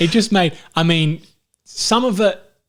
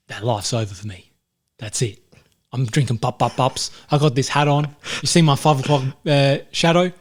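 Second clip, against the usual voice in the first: Jason Statham. Acted. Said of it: "Jason Statham to say".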